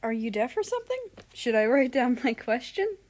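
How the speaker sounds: half mock, half earnest jab; joking jab with a straight face; serious but joking. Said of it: "he asked in a serious but yet joking tone".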